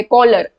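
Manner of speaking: कॉलर starting with a k sound; hard c. Shown as a demonstration. Teacher illustrating the letter c, कॉलर with a k sound. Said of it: "क से sound हो रहा है".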